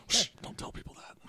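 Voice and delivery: hushed unvoiced shh; whispering. Real, not acted. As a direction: whisper it to keep a secret. Hushing a teasing friend.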